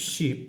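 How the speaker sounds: শিপ said slowly and clearly as English ship with a short i; teacher models শিপ as one clean short vowel; clear demo word. Shown as a demonstration. Teacher models শিপ for students, clear and careful. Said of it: "যদি আমরা উচ্চারণ করি".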